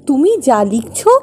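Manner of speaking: exasperated protest. Acted. Wife reminds husband it is only imagination, exasperated.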